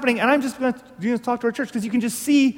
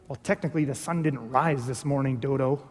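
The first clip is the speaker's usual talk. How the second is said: a hint of a smug know-it-all, lower and softer; lightly voiced snide correction; a friend correcting a sunrise text, mildly mocking; mock pedant; 7 semitones lower, 8 dB quieter than usual. Pedantic friend texting back.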